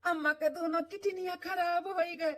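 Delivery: slow, tearful breaking of bad news; grieving news. Son telling his wife the mother will die, tearful. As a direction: tell it slowly through tears.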